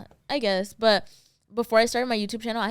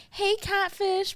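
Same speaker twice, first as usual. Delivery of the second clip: slow, high mocking taunt; mocking bully; 11 semitones higher, much slower than usual. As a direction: taunt it in singsong. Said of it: "they would be like".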